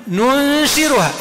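ننشرها very slowly with a clear rolled ر. Shown as a demonstration. Teacher contrasting the ر and ز readings. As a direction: recite ننشرها, land on the ر. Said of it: "بالزاي".

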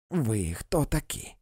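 rising to a high, loud yell; high yelled abuse, slow; yelling insults. A narrator's reading. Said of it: "волала вона".

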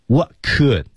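"what could" with a full oo vowel in "could"; full form. Shown as a demonstration. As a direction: pronounce "could" fully after "what". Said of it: "不能把它读成原形的那种读法".

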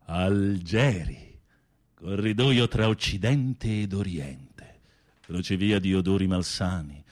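dreamy, dramatic storytelling over music; film story narration. Acted. Telling a friend the film's plot, dramatic narration. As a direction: paint the scene like a romance novel.

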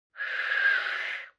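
hissing cat; threatening cat hiss. A narrator's reading. The cat hisses threateningly at the husband. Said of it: "угрожающее шипение".

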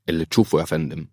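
quick, mildly resigned assent. Acted. Doctor Fahd yields to the major, resigned. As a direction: give in with understated resignation. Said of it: "في استسلام وافق فهد".

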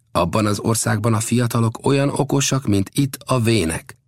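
high, even-pitched reply; Old Death explaining. Acted. Old Death reassures the doubting chief, lightly voiced.

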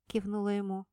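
usual speaking voice

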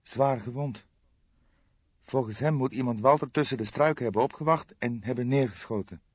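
a shocked young woman breaking bad news; young woman Jolanda. Narrator voices young woman Jolanda. (geschokte jonge vrouw, hogere stem)

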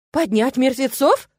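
slow, high, loud astonishment; aghast gasp. A narrator's reading. Beaver wife misunderstands the plan, aghast. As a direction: draw it out, appalled. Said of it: "ахнула бобриха".

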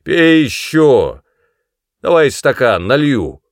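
loud, high, slow shout. A narrator's reading. Vengeful son shouting at his mother to drink. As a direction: bark the order at her. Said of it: "крикнул".

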